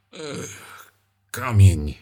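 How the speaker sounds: pained groan then the word forced through a clenched jaw. Acted. Bity mężczyzna odpowiada przez zaciśnięte szczęki z bólu. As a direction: grit it out through the pain. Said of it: "padło przez zaciśnięte szczęki".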